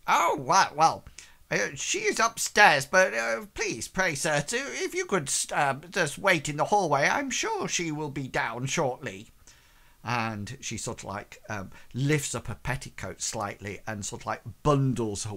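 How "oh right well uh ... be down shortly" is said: high, loud, flustered maid voice; gushing housemaid welcoming the church man; fussy servant. Acted. Servant asks guest to wait.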